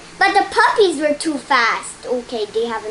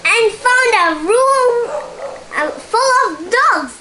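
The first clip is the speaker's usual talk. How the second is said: excited; 9 semitones higher, 4 dB louder than usual. A narrator's reading. Excited reading of dog room.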